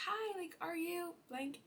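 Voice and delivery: high, slow, shy hello; nervous hi. Retold or imitated. Meeting the cute neighbour at his door, nervous. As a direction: squeak it out nervously. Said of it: "I was so nervous".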